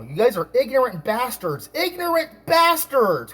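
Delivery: mock yell rising high on the repeat; retold shouting back. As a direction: re-enact yelling back, stretching the last words. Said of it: "I'm shouting and screaming back at them".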